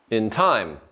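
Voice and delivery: "time" punched, "In" left light; light "In", weight on "time"; stress on TIME. Shown as a demonstration. Teacher demonstrates an iamb, stressing TIME. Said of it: "In is not stressed".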